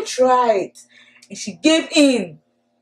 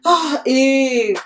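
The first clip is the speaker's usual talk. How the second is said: whispering snake. Acted. Storyteller snake whispering to Eve to look at the fruit. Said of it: "The snake whispered".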